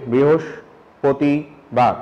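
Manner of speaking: বৃহস্পতিবার drawn out slowly, syllable by syllable; imitating a cerebellar patient's scanning speech. Shown as a demonstration. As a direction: say বৃহস্পতিবার with every syllable broken apart. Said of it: "তারা এটাকে আলাদা আলাদা করে বলে".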